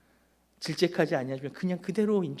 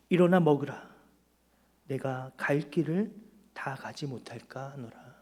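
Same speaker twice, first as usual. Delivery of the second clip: voice of God. Acted. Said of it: "하나님 우리에게 말씀하세요".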